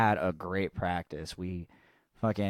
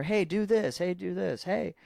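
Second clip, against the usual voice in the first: put-on annoying little kid; 11 semitones higher than usual. Imitating the drummer's nephew begging the band for attention, high and bratty. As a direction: mimic the pesky nephew whining for attention.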